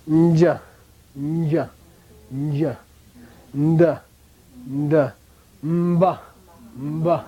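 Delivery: nasal onset fused to each syllable, nja nda mba; prenasal syllables. Shown as a demonstration. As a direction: hum the n or m straight into the vowel. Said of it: "You see what I mean?".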